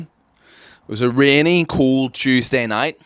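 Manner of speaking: slow, hammed-up scene-setting; dramatic storyteller. Telling listeners about coming out, slow mock-dramatic narration. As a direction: draw it out like a melodrama.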